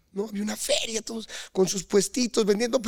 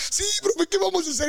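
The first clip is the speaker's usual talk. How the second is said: mock innocent; 10 semitones higher than usual. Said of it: "Y nosotros".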